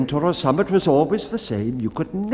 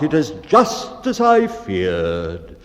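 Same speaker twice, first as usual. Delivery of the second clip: solemn; 2 semitones lower, 4 dB louder, slower than usual. Acted.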